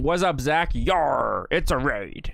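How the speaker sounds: gruff pirate growl on Yar. Shown as a demonstration. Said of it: "that's my pirate voice".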